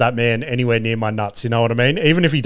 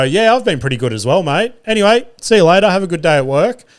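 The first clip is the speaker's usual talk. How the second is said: polite brush-off; 5 semitones higher than usual. Acted. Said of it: "Just do the polite thing and go".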